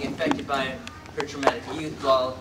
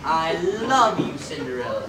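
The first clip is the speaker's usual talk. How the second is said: emotional demo; 4 dB louder than usual. Shown as a demonstration. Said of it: "You can do better than that".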